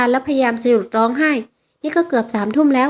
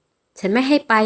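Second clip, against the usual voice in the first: slow, firm refusal; stern voice; much slower than usual. Acted. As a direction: lay down the law, slowly. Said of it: "เขาพูดเสียงเข้ม". (เสียงเข้ม พูดช้าๆ หนักแน่น)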